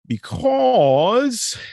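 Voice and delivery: squeaky high because. Shown as a demonstration. Host warming up before his country accent. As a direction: toss out "because" in a mock squeaky voice. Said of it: "put on my good country accent".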